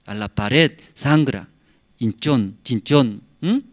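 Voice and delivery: normal talking voice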